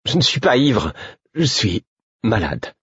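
high protest, slowing into pained insistence. A narrator's reading. Man accused of drunkenness by his friend, protesting. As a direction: protest high, then drag out the explanation. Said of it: "protestai-je".

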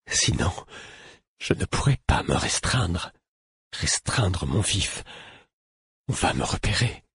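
weak, deliberately articulated plea; careful articulation. A narrator's reading. Warning the fool of being detected, carefully articulated. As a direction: pick out each word with care. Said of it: "dis-je en articulant soigneusement".

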